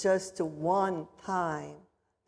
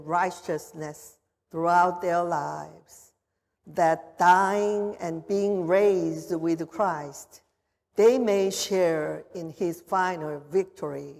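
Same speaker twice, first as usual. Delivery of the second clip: prayer; 2 semitones lower than usual. Acted. Pastor prays over the water.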